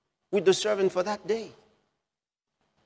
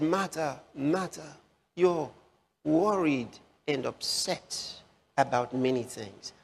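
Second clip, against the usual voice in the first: soft, tender rebuke; 2 semitones lower, 3 dB quieter, slower than usual. Acted. Jesus gently rebukes Martha.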